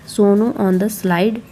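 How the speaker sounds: reads the line very slowly, word by word; slow reading aloud. Shown as a demonstration. Showing parents how to read the child's book line, slowly. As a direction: spell it out slowly like a beginner reader. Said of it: "ये तो पढ़ पाएंगे".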